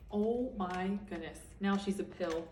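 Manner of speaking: quiet, slowed "oh my goodness"; hushed amazement. Real, not acted. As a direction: marvel softly at the twist. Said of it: "reader's aside to listeners".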